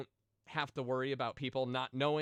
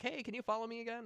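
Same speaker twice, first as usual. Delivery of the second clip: mock pleading quote; 9 semitones higher, 4 dB quieter, faster than usual. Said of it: "to be like".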